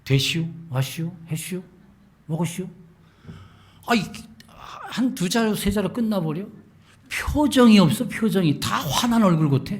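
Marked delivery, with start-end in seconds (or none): 0.1-2.7 Chungcheong dialect. Retold or imitated. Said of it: "이 사람들 불친절하더라고". 7.1-9.8 louder, higher exclaiming; animated exclaim. Real, not acted. Preacher exclaiming to the congregation about unfriendly faces.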